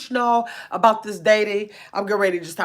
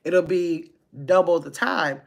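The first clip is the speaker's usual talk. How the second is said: slower, even demo pace; normal speed demo; 5 semitones lower, 5 dB quieter than usual. Shown as a demonstration. Showing chat how long lives would run, slowed deliberately. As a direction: slows down on purpose to show her normal speed. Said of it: "what if I talk at a normal speed like this".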